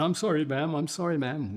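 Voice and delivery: high, loud, panicky sorry; frantic apology. Retold or imitated. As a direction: plead with her, rattled and over the top. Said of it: "He's going".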